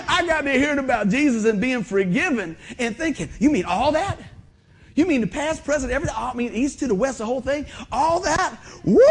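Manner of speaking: a mildly hammed-up thrilled recall of being saved; amazed joyful outburst, lightly performed; retold excitement. Retells his amazed self when forgiven.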